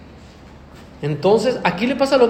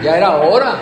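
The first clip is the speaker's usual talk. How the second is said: retold outburst; 9 dB louder than usual.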